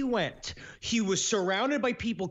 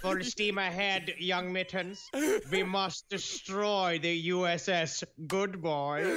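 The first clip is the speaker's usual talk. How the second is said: villain cat commander; slower than usual. Acted. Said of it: "the horrible Nazi cats of the U-boats".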